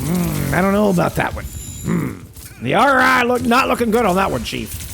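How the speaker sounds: lightly voiced doubtful banker, hesitant hums; a hint of a wary money adviser shaking his head; investment banker voice. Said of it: "That, that was my investment banker voice".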